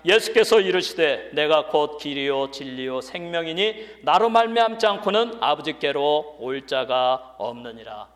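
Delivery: loud, declaimed scripture reading; preaching. Acted. Preacher leads the church reading verse six, loud preaching. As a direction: proclaim the verse for all to join.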